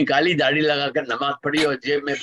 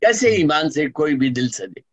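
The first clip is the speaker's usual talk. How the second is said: measured, rhythmic poetry recital; stately nazm recitation; 2 semitones higher than usual. Acted. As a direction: declaim each line to the audience. Resumes nazm after anecdote.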